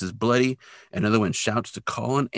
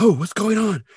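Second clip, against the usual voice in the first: surprised; 9 semitones higher than usual. Retold or imitated. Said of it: "And then they're like".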